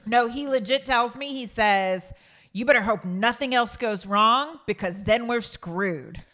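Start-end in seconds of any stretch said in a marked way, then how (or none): 2.5-6.2 loud, drawn-out mock warning; slow, heavy emphasis, exaggerating his threat; imitated stern warning. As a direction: imitate him laying down an ominous ultimatum. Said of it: "I didn't say it like that".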